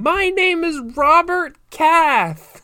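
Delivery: very high, drawn-out shout with stretched word. Retelling a man on the back of a speeding train, imitating him yelling. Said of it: "speeding off into Serbia yelling".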